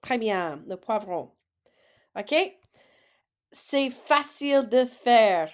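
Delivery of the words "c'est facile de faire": "C'est facile de faire" slow and louder; slow model phrase. Shown as a demonstration. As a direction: read it slowly for the class. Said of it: "So take a guess".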